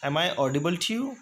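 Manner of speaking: very slow, careful question; slow model phrase. Shown as a demonstration. Teacher first modeling the audibility question, slow. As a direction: draw the question out for learners. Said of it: "next है".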